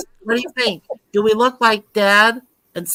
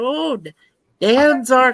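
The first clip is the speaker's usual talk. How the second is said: lightly voiced wife; 3 semitones higher, slower than usual. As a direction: voice the wife's mock dismay, lightly.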